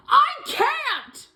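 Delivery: sudden high, loud cry; desperate high shout; cried out. Acted. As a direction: burst out in frustration. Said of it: "she cried out".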